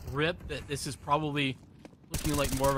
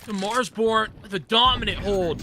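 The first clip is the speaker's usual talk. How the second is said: excited play-by-play; 4 semitones higher, 4 dB louder than usual. Real, not acted. Big play called live.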